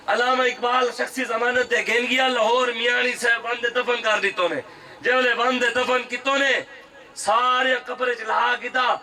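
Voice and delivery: full-voiced rally preaching; kraftvolle Predigt. Real, not acted. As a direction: preach it out to a big crowd. Preaches to a crowd.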